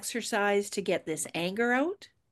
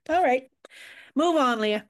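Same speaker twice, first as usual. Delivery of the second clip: brisk wrap-up; 6 semitones higher, 5 dB louder than usual. Real, not acted. Cutting off the topic.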